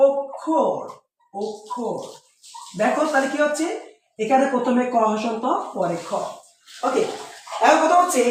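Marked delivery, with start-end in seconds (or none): 0.1-2.0 অক্ষর said as "ok-khor"; demonstrated pronunciation. Shown as a demonstration. Teacher answering for the class, অক্ষর as "ok-khor". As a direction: open অক্ষর on a rounded o, then k plus kh. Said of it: "এটার উচ্চারণ কি হবে".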